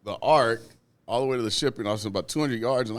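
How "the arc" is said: laughing through the words, slowed right down. Real, not acted. Laughing while telling a coworker about cussing out a boss. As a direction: chuckle as you tell it. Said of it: "So I'm cussing him out".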